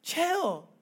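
calling a friend down from a rant; whoa, calm down. Retold or imitated. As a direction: rein her in with a loud whoa. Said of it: "he's probably saying".

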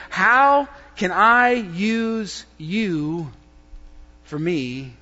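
slow, mock-greedy asking; selfish prayer. Shown as a demonstration. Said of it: "I'm gonna say that again".

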